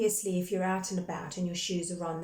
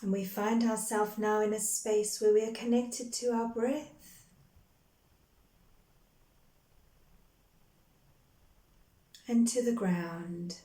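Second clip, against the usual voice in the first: calm, measured meditation guide with long pauses between phrases; guided meditation. Real, not acted. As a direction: guide them gently into breath and grounding, unhurried. Leads a guided grounding meditation.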